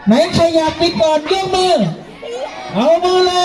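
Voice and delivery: excited call-out. Real, not acted. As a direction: call out to the crowd. Calling out to children.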